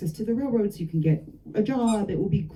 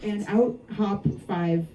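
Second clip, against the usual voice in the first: slow dramatic reveal; slower than usual. Acted.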